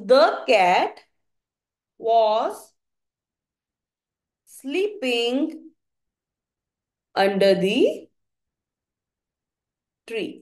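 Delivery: the cat was sleeping under the tree, word by word with long pauses; slow dictation. Shown as a demonstration. Teacher reading the example sentence to the class, word by word with long pauses. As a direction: dictate it slowly so children can follow. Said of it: "समझ आया बच्चे?".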